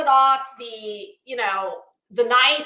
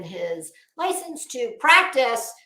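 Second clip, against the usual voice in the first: slow down and weight practice; stress on practice. Real, not acted. Mocking the surgeon's license to viewers, practice stressed. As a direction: lean on the word practice, slower. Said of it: "emphasis on the word practice".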